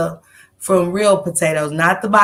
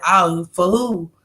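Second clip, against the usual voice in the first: slow puzzled ask; 3 semitones lower, slower than usual. Retold or imitated. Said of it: "I said".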